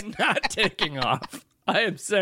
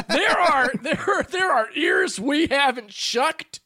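higher, laughing while talking; laughing through it; 9 semitones higher than usual. Real, not acted. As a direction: let real laughter break into the words. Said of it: "maybe we'll get to that".

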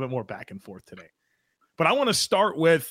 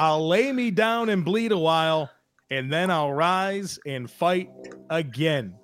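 reciting a poem; slower than usual. Acted. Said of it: "A Scottish poem".

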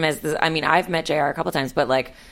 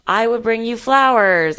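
soft tender voice; 4 semitones higher, 3 dB louder, slower than usual. Retold or imitated. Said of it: "he's gotta be like".

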